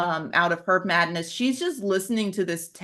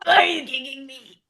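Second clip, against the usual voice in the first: a little higher, lightly voiced toy; hurt teddy bear; 5 semitones higher than usual. Teddy bear asks the kicker why, hurt and higher. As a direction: whine at the kid who kicked you.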